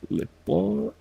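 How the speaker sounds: hammed-up French try; mock high French. Shown as a demonstration. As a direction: squeak Le pont up high. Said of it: "Like that".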